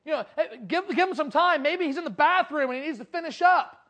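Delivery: loud mocking heckle from afar; taunting call. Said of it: "Elijah's off in the distance saying".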